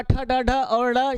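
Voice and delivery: ठ, ड, ढ और ड़ said slowly, one letter at a time; slow, careful recital of ठ, ड, ढ and ड़; slow letter demo. Shown as a demonstration. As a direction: spell out ठ, ड, ढ, ड़ slowly and clearly. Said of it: "का उच्चारण स्थान सबका".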